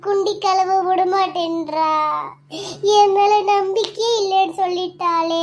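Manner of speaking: milk it with fake tears to win her over; fake crying. Younger sister fakes tears so her elder sister believes her. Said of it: "கொஞ்சம் கண்ட தண்ணி விட்டாதான் நம்புவா".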